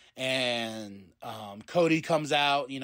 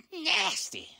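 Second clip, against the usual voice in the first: amused nasty; 14 semitones higher than usual. Retold or imitated. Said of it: "Xavier's like".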